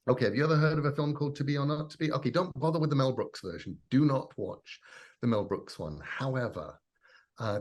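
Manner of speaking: loud, fast, breathless list of films; can't wait to tell them everything; excitable rattling off. Retold or imitated. Recommending old films to a newcomer, fast and excited. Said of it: "the excited and excitable willingness".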